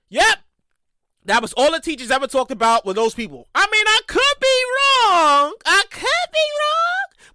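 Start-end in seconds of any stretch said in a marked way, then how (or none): 3.5-7.3 sarcastic concession. Acted.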